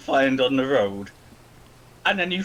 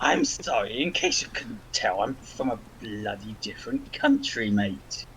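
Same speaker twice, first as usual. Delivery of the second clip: bad British accent; 5 semitones lower, 4 dB quieter than usual. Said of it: "worst British accent coming from a British person".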